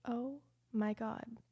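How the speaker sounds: slow, soft, whispered disbelief; stunned whisper. Retold or imitated. Daughter seeing the nearly empty jar, stunned whisper. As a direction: whisper it slowly in shock.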